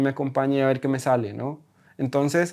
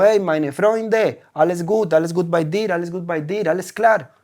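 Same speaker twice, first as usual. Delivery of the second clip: casual German greeting; 4 semitones higher, 3 dB louder than usual. Retold or imitated. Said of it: "yo le digo".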